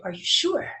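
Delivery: lightly imitated Frenchman's question; French accent. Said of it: "in a French accent".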